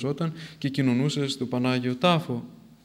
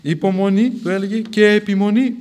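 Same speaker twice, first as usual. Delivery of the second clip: louder, Υπομονή then και επιμονή set apart; split emphasis; 5 semitones higher, 7 dB louder than usual. Retold or imitated. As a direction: hammer each word in its own breath. Repeats the answer word by word.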